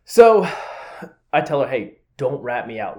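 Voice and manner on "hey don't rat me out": softer, slow, low-key request; subtle warning. Retold or imitated. To the girl who may tell, subtle hushed warning. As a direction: slip it to them discreetly. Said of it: "I was so subtle about it".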